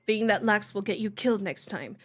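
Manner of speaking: steady visual-novel narration read; story narration. Acted. Streamer reading the novel aloud, narration. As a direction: read the inner voice evenly. Reads character inner monologue.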